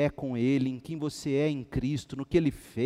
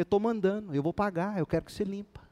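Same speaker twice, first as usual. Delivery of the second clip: retold annoyance; 5 semitones higher, faster than usual. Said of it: "Fiquei com raiva".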